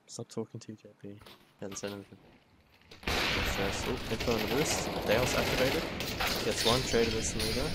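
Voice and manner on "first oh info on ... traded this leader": fast, loud hype call; excited call. Real, not acted. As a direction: build the hype as it happens. Caster hypes a clutch play.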